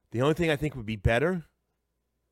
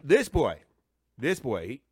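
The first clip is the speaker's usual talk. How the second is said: grandmother voice; 3 semitones lower, 5 dB quieter, slower than usual. Retold or imitated. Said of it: "That's my grandmother".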